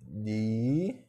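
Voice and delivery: "Livro" said slowly as li-vro, pausing between syllables; split into syllables. Shown as a demonstration. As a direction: break "Livro" into its syllables for students. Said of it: "Bora separar?".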